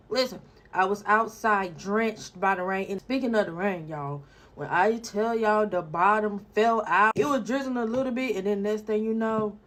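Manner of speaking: rough, worn-out voice; strained hoarse voice after screaming. Real, not acted. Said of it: "my voice is kinda gone".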